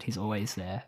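usual speaking voice

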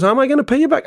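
very high-pitched, fretful mock plea; imitated crying caller. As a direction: imitate the upset caller worrying. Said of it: "Like, he's really crying".

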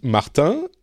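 Martin said the French way, stress on the last syllable; French pronunciation of Martin, ending in a nasal vowel; French accent. Shown as a demonstration. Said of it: "whose name I say with a French accent".

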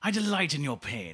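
villain gloat in a James Mason accent. Shown as a demonstration. Host repeats gloat on request, James Mason accent. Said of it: "can you say that in that accent?".

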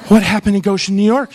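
half-mocking urgent question; mock alarmed repeat. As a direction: demand the answer, alarmed. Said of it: "And I was like".

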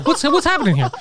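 high-pitched comic exasperation; losing his mind. Retold or imitated. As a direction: reenact incredulous ranting, near laughter. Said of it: "I was losing my fucking mind".

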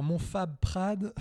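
slow, drawn-out mock commentator; lightly voiced sports commentator; imitating commentator. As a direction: savour the nickname like a TV commentator. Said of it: "les commentateurs qui disaient le".

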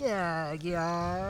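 "Jaguar" smeared into long open vowels, "yaag-yaar"; drawn-out joke pronunciation. Shown as a demonstration. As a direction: stretch "Jaguar" into mushy vowels. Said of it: "say it like you would say it".

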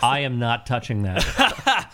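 laughing refusal. Real, not acted. Declines topic while laughing.

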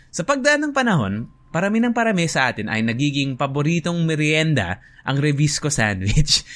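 lightly performed quiz-host reading; pretend event host. Host reading a Tagalog quiz question, pretend hosting voice. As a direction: read it out carefully to the audience. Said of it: "I'm just gonna pretend I'm hosting".

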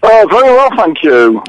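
over the telephone; talking down a phone line. Real, not acted. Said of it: "the reason you sound as though you're on the telephone".

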